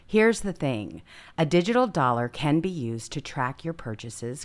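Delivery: ad read. Acted. Host reads sponsor message to viewers, ad-read voice. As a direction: sell it like a host's paid spot.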